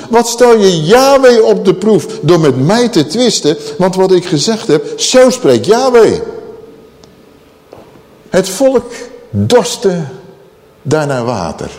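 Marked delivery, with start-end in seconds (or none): 0.1-6.2 raised, higher declamation as Moses; indignant rebuke. Acted. Moses answering the quarrelling people, indignant rebuke. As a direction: declare it forcefully, slowing on the last words.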